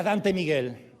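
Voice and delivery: low, controlled imitated warning; understated parental threat; mother's stern full-name call. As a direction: say both names as an ominous mock-mother warning. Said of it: "por su tono".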